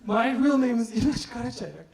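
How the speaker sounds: "Inanç Karaçayak" said in full Turkish; Turkish name. Shown as a demonstration. Comic tells crowd his real name, Turkish. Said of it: "people can't say inanç".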